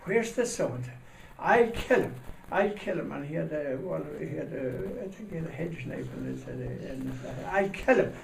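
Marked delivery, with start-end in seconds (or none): 0.0-3.1 high, loud threat; angry shout. Retold or imitated. Jealous husband hunting the guest, shouting threats. 7.5-8.1 high, loud threat; angry shout. Retold or imitated. Jealous husband hunting the guest, shouting threats.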